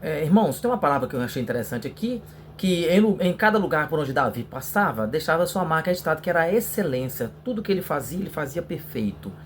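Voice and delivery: lively preaching, pitch lifted a little; sample sermon introduction. Shown as a demonstration. Teacher modelling an introduction for the youth class, lively preaching. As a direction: preach the opening with energy. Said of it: "Então, você tem que falar, introdução".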